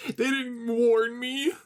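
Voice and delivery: high, slow defensive cry; defensive exclaim. Acted. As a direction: protest that nobody warned her. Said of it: "the redhead exclaimed defensively".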